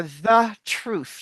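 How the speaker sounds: "the truth" slowed, each TH sounded; both TH sounds articulated. Shown as a demonstration. Teacher showing a hard sound, "the truth" slowly articulated. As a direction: put the tongue between the teeth twice in "the truth". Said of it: "you're saying two T H's".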